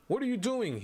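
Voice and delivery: a doctor bursting in, shouting; doctor's shout. Acted. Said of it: "he shouts at Kaim".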